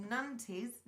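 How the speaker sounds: Nantes sounded out as "NAN-teez"; unsure pronunciation. Real, not acted. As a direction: say Nantes with an "eez" ending. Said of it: "Nantes, I don't know".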